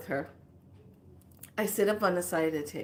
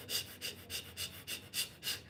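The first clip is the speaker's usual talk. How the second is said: whispered shh to calm herself; hushing through the pain; shushing; 17 dB quieter, faster than usual. Retold or imitated. Hushing herself on the massage table. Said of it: "And I'm like".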